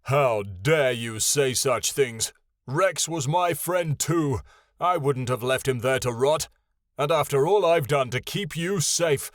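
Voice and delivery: booming how-dare-you anger; roaring. Acted. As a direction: roar in wounded outrage. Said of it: "Ionin roared".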